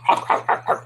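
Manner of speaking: short run of mock bulldog barks; imitated dog barks. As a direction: bark like a dog, in quick bursts. Barking after naming the Bulldog move.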